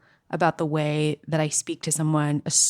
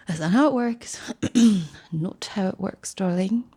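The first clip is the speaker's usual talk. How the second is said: arch put-on voice; 3 semitones higher than usual. Shown as a demonstration. Comic scolding her younger self, arch and condescending. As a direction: talk down to her, darling. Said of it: "repeated in different voices".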